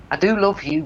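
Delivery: high, fond acted mother; affectionate. Mother making up with son.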